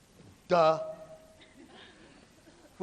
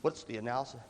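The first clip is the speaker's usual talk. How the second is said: skeptical teacher; 7 semitones lower, 3 dB quieter than usual. Retold or imitated. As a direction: drag it out like a doubting colleague. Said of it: "it's always like".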